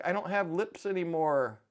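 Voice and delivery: mock crying. Dad retelling daughter's laughing-gas panic, mock crying. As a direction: imitate someone tearfully distressed over nothing. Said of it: "And she was crying".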